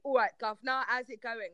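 lightly put-on Cockney accent; London Cockney. Shown as a demonstration. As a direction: demonstrate a stock Cockney greeting. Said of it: "like, the London Cockney".

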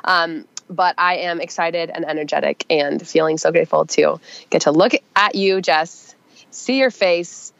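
stuffy nose from a cold; talking through a head cold; nasal voice. Real, not acted. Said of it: "my nasally voice".

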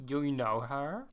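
put-on lightly done Australian accent as Gemma. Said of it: "let me get into my Australian accent".

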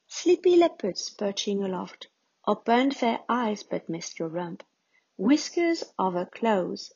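playful, lilting recital; poem reading. Acted. Poet reading her zebra poem, playful and lilting. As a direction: read it like a story to a child.

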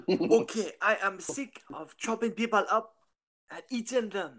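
high-pitched, giggling through a mock confession; squeaky laughing cannibal plea. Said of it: "doing the cannibal voice".

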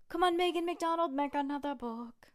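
begging the author playfully; mock plea. Real, not acted. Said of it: "pleading with the author".

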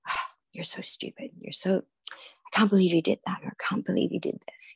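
hushed, half-whispered self-reproach; mock self-scolding. Inner critic beating oneself up, hushed mock scolding. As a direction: act out berating yourself under your breath.

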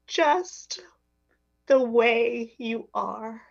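slow, gentle, hushed message; tender and slow. Retold or imitated. Stranger tells flight attendant God loves her, slow and tender. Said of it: "He said".

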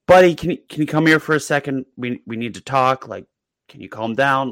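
dad coaxing. Retold or imitated. Dad coaxing crying son.

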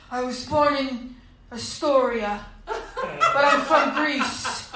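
lightly voiced smug boyfriend; stubborn proud Greek guy. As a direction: insist on it, unbothered.

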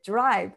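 ドライブ, the dr blended toward jo; American dr sound. Shown as a demonstration. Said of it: "ディーアールはジョ-、ドライになるじゃん". (アメリカ英語風のdrで「ドライブ」)

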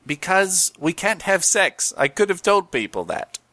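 lightly voiced Cockney gecko; Geico Gecko voice. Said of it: "Geico Gecko".

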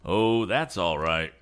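relaxed, drawn-out reply; easy. A narrator's reading. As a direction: brush off the apology slowly and easily. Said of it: "continued the man easily".

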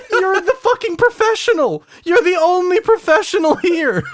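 very high, loud protest through laughter; laughing exasperation. Real, not acted. Podcaster scolding a co-host over sound tests, laughing exasperation. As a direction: squeal the complaint while cracking up.

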